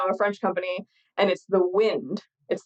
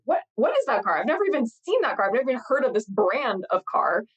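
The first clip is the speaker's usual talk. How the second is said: higher, mildly incredulous retelling; zdumiony cytat; 4 semitones higher than usual. Retold or imitated. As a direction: re-enact your own bafflement, pitched up. Imitates own bafflement in London.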